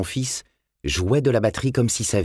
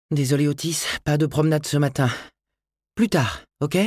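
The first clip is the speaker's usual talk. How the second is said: voix de femme plus aiguë, doucement jouée; s'excuser auprès du chien; mère au chien; 8 semitones higher than usual. A narrator's reading. La mère parle à son chien. (une mère qui s'excuse auprès de son chien)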